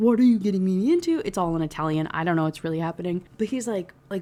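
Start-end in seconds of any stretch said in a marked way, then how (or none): 0.0-1.2 put-on freaked-out, alarmed, panicked yelling. Recapping a wedding scene, acting out the priest yelling at another character. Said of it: "freaking out and yelling at Raphael".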